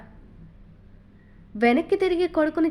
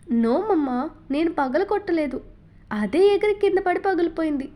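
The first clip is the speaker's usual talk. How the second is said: put-on higher, wide-eyed child's denial; little son pleading innocence to his mother; innocent little boy; 4 semitones higher than usual. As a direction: play the innocent kid caught out. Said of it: "ఇన్నోసెంట్గా face పెట్టి చెప్పాడు".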